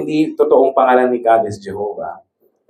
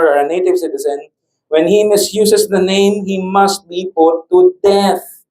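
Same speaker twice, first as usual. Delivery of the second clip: raised, emphatic reading of the law; solemn scripture reading; 5 semitones higher than usual. Acted. Preacher reads Leviticus to the congregation, raised and emphatic. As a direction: read the verse out firmly, slowing into the penalty.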